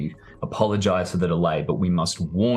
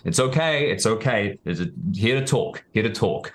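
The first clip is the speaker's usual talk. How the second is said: calling out; 3 semitones higher than usual. Acted. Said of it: "he begins to yell".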